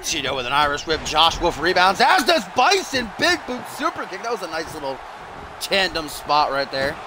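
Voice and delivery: animated wrestling match commentary; lively ringside announcer voice; play-by-play. Pretend. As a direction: call each move as it lands.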